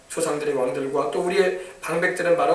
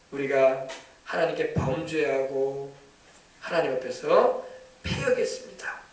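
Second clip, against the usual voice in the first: humble confession; 5 semitones lower, 6 dB quieter, slower than usual. Shown as a demonstration. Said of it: "죄를 자세하게 하나님께 고백하는".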